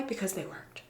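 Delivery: hushed, breathy mock reverence; mock-solemn whisper. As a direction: whisper it like an ancient secret. Mock-solemn tradition speech.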